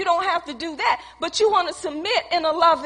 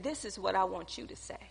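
much softer, lower, hushed divine voice; God's quiet voice; 8 semitones lower, 15 dB quieter than usual. Retold or imitated. God answering her prayer, hushed and soft. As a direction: speak low and hushed like God's inner voice.

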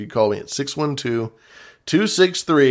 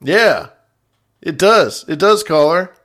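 emphatic agreement; 6 semitones higher, 6 dB louder than usual. Real, not acted. Host loudly agrees.

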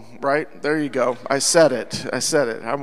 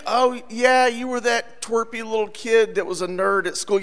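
acted recognition; 5 semitones higher than usual. Acted schoolmate recognising someone.

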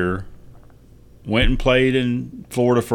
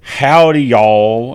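louder, exaggerated Texas howdy; mock Texan greeting; 7 dB louder, much slower than usual. Texan ballplayer mocking his own stereotype, hammed-up Texas accent. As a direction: lay on a hammy Texas twang. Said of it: "I didn't say".

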